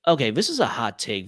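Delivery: hushed, conspiratorial whisper. Real, not acted. To his co-host, before an unpopular opinion, whispered. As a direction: lean in and whisper the confession.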